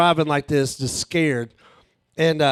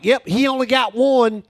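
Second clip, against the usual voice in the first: lightly voiced girls, raised pitch; imitating front-row girls; 6 semitones higher, 4 dB louder than usual. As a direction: confirm it in a higher mock-girl voice. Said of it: "I asked these two girls in the front row".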